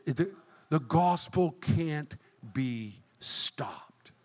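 slow intense whisper. Real, not acted. Preacher whispering to the congregation. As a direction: breathe it as a secret truth.

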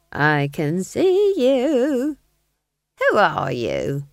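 wary but bold, stretched words; challenging old witch. A narrator's reading. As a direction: demand the lurker show himself. Nanny challenges the ghost.

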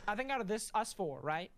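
slight unplanned country accent. Real, not acted. Podcast host slips into a faint country accent. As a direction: let a mild country accent slip in. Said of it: "Why am I in a country accent?".

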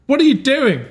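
high-pitched startled protest; acted outrage, pitched well up; indignant woman. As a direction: cry out as an interrupted mother. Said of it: "she's like".

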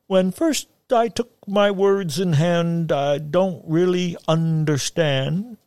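slow, high declaiming hillman; grand recital. A narrator's reading. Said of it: "he gestured wildly with his arms".

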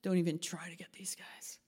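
hushed reassurance. Retold or imitated. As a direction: reassure the little ones quietly. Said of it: "they said".

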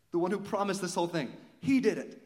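rising shout of praise for God's faithfulness; building to a shout. Real, not acted. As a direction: build the line up until it bursts out. Preacher builds to climax.

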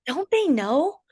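hammed-up gloating; cocky taunt. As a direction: tease the opponents as if they forgot you. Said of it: "you'll say stuff like that".

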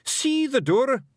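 high, loud Scottish order; forceful pixie command. Acted. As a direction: command it as a little Scots chief. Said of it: "Rob Anybody commanded".

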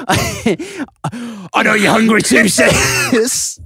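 high, slow mock cat voice; voicing the cat. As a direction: purr it out as the cat. Voicing the cat's caption.

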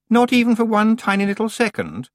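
high, loud, falsely playful wheedling; sing-song tease, trying too hard to be cute. A narrator's reading. Anagramma teasing Tiffany about sleeping, high playful wheedle. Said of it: "in what she probably thought was a playful voice".

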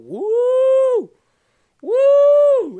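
high, loud joyful woo; excited whoop. Real, not acted. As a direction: let out a whoop of joy. Cheering at a comment.

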